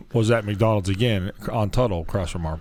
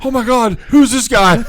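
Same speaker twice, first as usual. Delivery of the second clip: much higher, louder alarmed cry; mock alarm; 13 semitones higher, 8 dB louder than usual. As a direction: girlfriend startled by a stranger. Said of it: "She's like".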